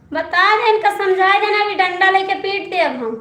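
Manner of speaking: loud, high mock scolding that breaks into laughter; laughing mock threat. Real, not acted. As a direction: pretend to threaten while laughing. (हंसते हुए ऊंची आवाज़ में झूठी धमकी)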